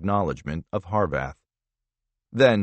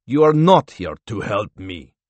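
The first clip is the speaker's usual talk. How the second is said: firm, louder protest; insistent; 5 dB louder than usual. Acted. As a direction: push back hard on every word. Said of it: "the Russian insisted".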